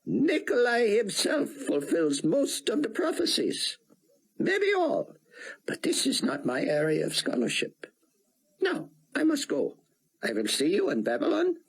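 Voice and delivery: put-on courteous elderly scholar; old statesman voice. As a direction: speak as a wise old Israeli scientist.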